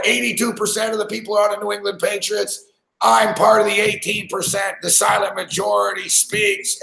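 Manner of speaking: high-pitched, hammed-up sports betting pitch; mock hype yell. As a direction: ham it up like an over-the-top game-day promo. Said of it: "I'm fucking yelling and shit".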